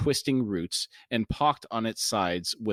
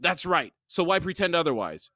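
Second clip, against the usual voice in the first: sharp, higher-pitched retort; snapping; 8 semitones higher than usual. A narrator's reading. Chalice answering the self-confessed thief, snapping. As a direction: snap back, voice lifted. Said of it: "She snapped".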